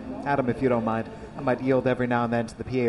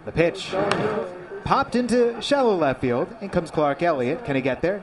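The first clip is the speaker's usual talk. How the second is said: play-by-play; 3 semitones higher than usual. Acted. Live baseball call.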